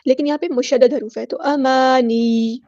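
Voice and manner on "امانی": امانی ending on a lightly sounded doubled y; doubled ya stop. Shown as a demonstration. Teacher shows stopping, doubled y sounded in امانی. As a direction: linger slightly on the final y of امانی. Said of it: "ہلکی سی ہم نے یا کے اوپر آواز ظاہر کرنی ہے".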